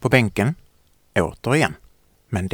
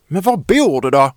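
louder, higher shouted question; angry yell; 6 semitones higher, 7 dB louder than usual. Acted. Child yells at silent Victoria, angry. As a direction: yell it in frustration. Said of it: "skriker jag".

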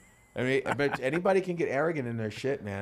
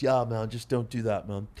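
bored ironic hipster; 3 semitones lower than usual. Retold or imitated. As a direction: act like a hipster brushing off an insult. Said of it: "That's my hipster voice".

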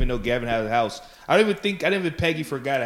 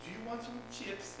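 high, slow, quiet mock German accent; 9 semitones higher, 18 dB quieter than usual. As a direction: imitate a German attendant's accent offering snacks. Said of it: "it's a horrible accent".

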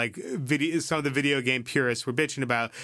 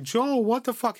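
high, louder startled yell; shocked shout; 11 semitones higher, 4 dB louder than usual. Retold or imitated. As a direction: yell it in disbelief. Neighbors see Joel strike grandma.

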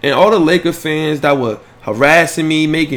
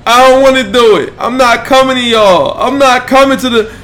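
voicing the baby; 7 semitones higher, 6 dB louder than usual. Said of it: "He said".

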